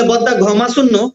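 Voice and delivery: slow Chittagonian greeting, stretched out; Chittagonian dialect. Shown as a demonstration. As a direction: greet an elder brother the Chittagong way. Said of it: "তারা বলে".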